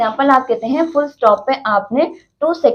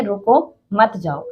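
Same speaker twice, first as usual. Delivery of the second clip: "रुको" set apart with a rise, "मत जाओ" lower; pause after रुको; 3 semitones lower, slower than usual. Shown as a demonstration. Teacher showing a comma's meaning, break after रुको. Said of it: "यहाँ पर comma लगा देते हैं".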